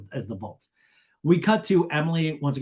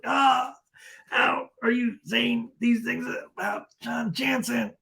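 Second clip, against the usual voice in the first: high, slow mock agony; 8 semitones higher, slower than usual. The speaker is hit by the comment, mock wounded. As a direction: gasp it out as if shot, hammed up. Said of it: "it's like bullet wounds".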